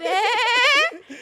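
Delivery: high, loud startled eh; loud laughing eh; shocked eh. Retold or imitated. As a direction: react in disbelief. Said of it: "I said".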